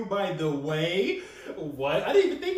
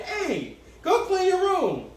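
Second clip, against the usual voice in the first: stern dad; 10 semitones higher, much slower than usual. Retold or imitated. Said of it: "I see what raising little girls is gonna be like".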